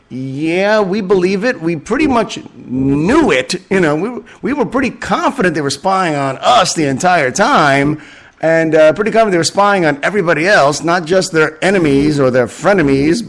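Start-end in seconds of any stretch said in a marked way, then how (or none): 0.1-8.0 higher, casually smug, everyone knew it; a light mock of a nation shrugging it off; smug knowing Israel. Israel telling allies it always knew, lightly smug. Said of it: "Israel is basically saying".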